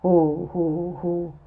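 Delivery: mournful, hollow "ho, ho, ho"; mournful laugh. A narrator's reading. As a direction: drag out a joyless laugh.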